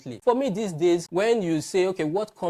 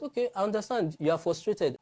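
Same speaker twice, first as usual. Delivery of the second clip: higher-pitched mock understanding; sarcastic; 5 semitones higher than usual. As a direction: imitate a voice feigning sympathy with light sarcasm. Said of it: "you hear that sarcastic voice".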